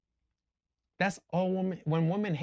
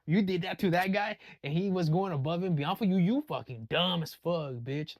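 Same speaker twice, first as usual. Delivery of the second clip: put-on scolding girlfriend; 3 semitones higher than usual. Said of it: "Another woman's gonna be like".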